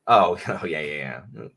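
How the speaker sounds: ordinary delivery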